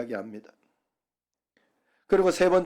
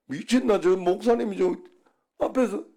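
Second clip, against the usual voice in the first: higher, scandalised Gyeongsang listener; mock shocked reaction; 5 semitones higher than usual. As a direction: play a shocked Gyeongsang churchgoer. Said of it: "경상도 사람은". (놀란 경상도 사람 흉내)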